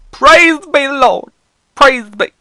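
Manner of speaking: loud, high jubilant praising; hammed-up hallelujah; mock praise. Boy thanking God the cat lived, loud and high mock rejoicing. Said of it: "I was like".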